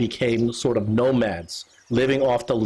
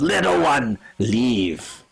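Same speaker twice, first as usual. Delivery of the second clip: Kerber shooing; much slower than usual. Acted. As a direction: send the little one away, lightly voiced. Kerber shoos the creature.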